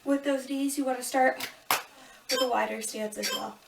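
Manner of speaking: talking through a yawn; yawning mid-sentence. Real, not acted. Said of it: "Sorry, I'm yawning so much".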